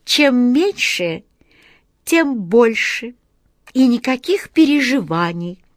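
cryptic muttering. Acted. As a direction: chant a strange saying slowly. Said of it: "негромко пробормотала красотка Джина".

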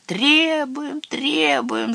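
high, drawn-out chanted demand; clamouring. A narrator's reading. Witches demanding punishment from their chief, clamouring. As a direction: cry it out like a crowd. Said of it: "загалдели ведьмы".

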